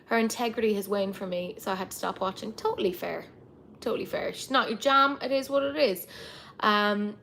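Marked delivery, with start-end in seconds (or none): 3.8-4.3 whisper. Real, not acted. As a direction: repeat Totally fair in a soft whisper. Repeats the phrase, then whispers it.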